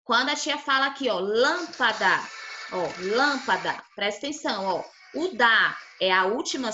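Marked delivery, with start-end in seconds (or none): 1.2-2.2 "lâmpada" with a strong, held LÂM; stress on first syllable. Shown as a demonstration. Teacher showing which syllable is strongest, "lâmpada" stressed on LÂM. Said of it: "essa sílaba é a mais forte". 3.2-3.8 "lâmpada" with a strong, held LÂM; stress on first syllable. Shown as a demonstration. Teacher showing which syllable is strongest, "lâmpada" stressed on LÂM. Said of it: "essa sílaba é a mais forte".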